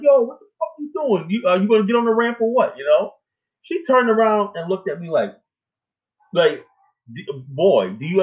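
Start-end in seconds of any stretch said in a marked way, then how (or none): 0.0-2.8 much higher, angry yell at the driver who cut him off; retold yell at a driver. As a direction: shout it up high like road rage. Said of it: "I was like".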